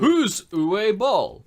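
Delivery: mock outrage. Friend hamming up asking who Uwe Boll is. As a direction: drag out the mock-dramatic question.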